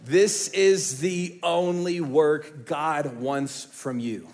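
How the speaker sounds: slow, deliberate stress on this; slow emphatic. Shown as a demonstration. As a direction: lay each word down slowly. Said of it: "repeated key line, slowed".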